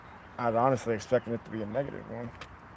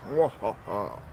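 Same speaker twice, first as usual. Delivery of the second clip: evil count laugh; 3 semitones lower, slower than usual. Pretend. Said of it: "count impersonation".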